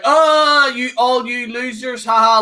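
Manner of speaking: lightly voiced heel jeering at losers; mocking smug heel. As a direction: taunt the crowd like a cartoon villain. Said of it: "bare minimum heel shit".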